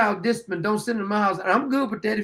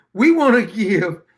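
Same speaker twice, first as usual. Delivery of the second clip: imitating the sister. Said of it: "the old bag's sister says".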